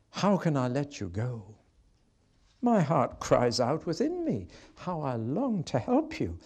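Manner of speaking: a father who can't let go; grieving God. Acted. God lamenting over his child Israel, tender then hushed.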